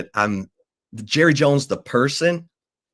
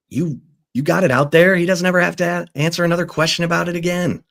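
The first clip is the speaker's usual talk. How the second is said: emphatic quote; 9 semitones higher, faster than usual. Retold or imitated. Quoting Stephen's emphatic reassurance.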